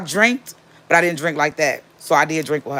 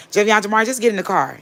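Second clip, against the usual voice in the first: put-on sharp raised call to the boys; 6 semitones higher than usual. Mother calling her sons to the car, raised call. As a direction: call the kids over, firmly.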